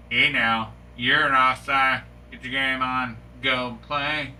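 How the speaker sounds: playful Canadian hockey scold; light fake Canadian ref call; mock Canadian accent as a ref. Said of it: "speaking a Canadian accent".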